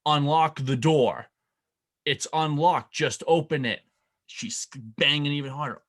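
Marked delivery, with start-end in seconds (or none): 0.1-3.8 louder, slower, firmer demand; mock exasperated wife at the door; impatient wife. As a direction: insist she be let in now. Wife banging harder on door.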